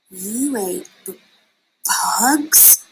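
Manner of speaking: stumble, then a whispered bugs; sputtering disbelief. A narrator's reading. Startled bat reacting to Stella Luna's story, sputtering. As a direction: sputter it out in shock. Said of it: "sputtered one".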